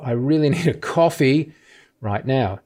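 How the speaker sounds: "a coffee" lifted and stretched; stress on a coffee. Shown as a demonstration. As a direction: pause before "right now". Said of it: "we're emphasizing different parts".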